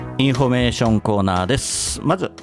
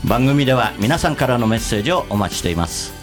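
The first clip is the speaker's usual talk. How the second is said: bright show sign-off read; radio announcer. Acted. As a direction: wrap up the show like a DJ.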